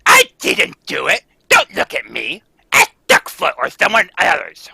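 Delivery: loud, high protest; panicked protest. Acted. Faye protesting her innocence to the detective. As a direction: push the blame away in a rush. Accused woman deflects suspicion.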